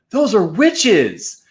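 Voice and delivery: can't believe your eyes; stunned. Acted.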